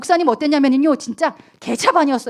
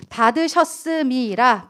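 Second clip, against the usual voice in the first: slow stressed word; slower than usual. Shown as a demonstration. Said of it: "여러분".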